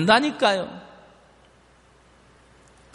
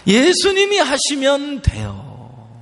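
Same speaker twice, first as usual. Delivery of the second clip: higher, slow "예수님이 하시면 돼요" with 예수님이 stressed; proclaiming; 8 semitones higher, slower than usual. Shown as a demonstration. Preacher proclaims the key line to the congregation, high and slow. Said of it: "누가 하시면 된다고요".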